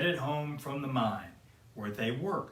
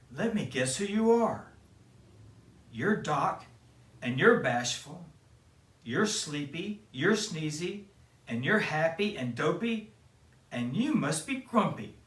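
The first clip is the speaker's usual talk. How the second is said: a touch higher, playful princess; playful guessing; 4 semitones higher than usual. Acted. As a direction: tease out each name. Snow White guessing dwarf names.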